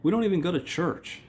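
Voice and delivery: high whiny nagging wife. Retold or imitated. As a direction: whine at him like a fed-up wife. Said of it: "She goes".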